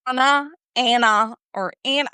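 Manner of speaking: "Anna, Anna, or Anna", each with a different first vowel; varied ANNA. Shown as a demonstration. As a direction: contrast the pronunciations of each "Anna". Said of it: "But they pronounce it".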